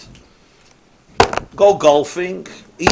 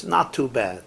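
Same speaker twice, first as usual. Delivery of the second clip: shrugging Jewish reply; 4 dB quieter than usual. Retold or imitated. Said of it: "The best you'll hear is".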